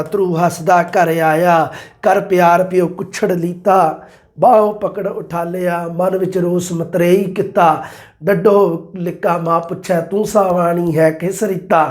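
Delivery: slow, measured poem reading; teacher reciting a verse to the class at slow pace; verse recitation. Acted. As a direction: recite the pauri steadily and slowly. Recites Bhai Gurdas verse.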